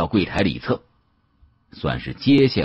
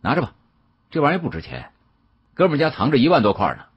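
higher and quick, tossing it off; scoffing brag; 6 semitones higher, faster than usual. Acted. Young man showing off to the shopkeeper, scoffing and fast. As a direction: flaunt it like loose change. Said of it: "年轻人哼了一声".

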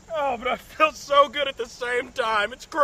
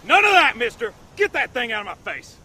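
scolding; 6 dB louder than usual. Acted. Scolding the other.

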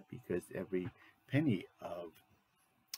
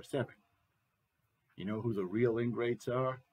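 loud, boastful and contemptuous, scoffing into the phone; a crude politician ranting to a crony on the phone, louder than the narration; blustering president on the phone; 4 dB louder than usual. Acted. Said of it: "President Becker".

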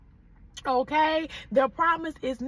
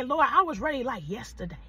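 model response line. Shown as a demonstration. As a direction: give the line for them to echo. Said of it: "somebody say".

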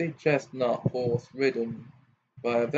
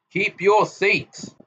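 warningly; 7 semitones higher, 3 dB louder, slower than usual. A narrator's reading. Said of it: "said his father warningly".

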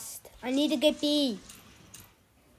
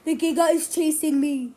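panicked, loud and urgent; frantic call for help while fleeing; being chased; 4 semitones higher, 5 dB louder, faster than usual. Real, not acted. Giga chasing him in game.

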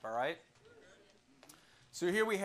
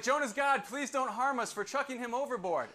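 pleading crew; 6 semitones higher than usual. Retold or imitated. Sailors begging Jonah's God not to harm them, pleading. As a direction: beg the unknown god for mercy. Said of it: "They're like".

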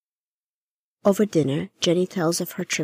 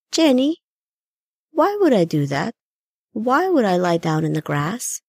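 puzzled questioning; 5 semitones higher, 5 dB louder than usual. Acted. Gran confused, questioning.

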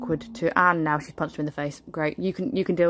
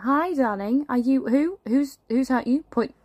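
put-on higher, cooing over a hurt child; doting concern; 6 semitones higher than usual. Mother fussing over her hurt son, cooing. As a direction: coo at him like a worried mum.

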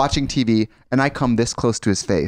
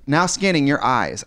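automated voice; slower than usual. Retold or imitated. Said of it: "automated voices".

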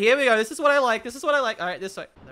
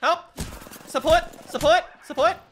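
loud, high calls for support; urgent repeated shout for support; calling for help; 5 semitones higher, 4 dB louder than usual. Real, not acted. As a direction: yell for your team to come.

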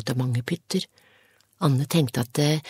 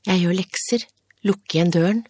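angry; 4 semitones higher, 5 dB louder than usual. A narrator's reading. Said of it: "Hun var sinna".

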